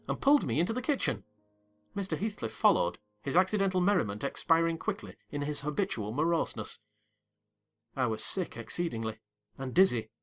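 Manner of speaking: plain reading voice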